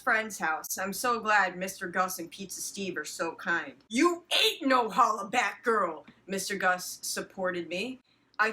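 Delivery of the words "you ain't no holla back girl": slow, sassy, louder delivery; mock sassy. Friend comforting her with a sassy quip, slow and louder. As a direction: sass it out slowly. Quoting Mister Gus.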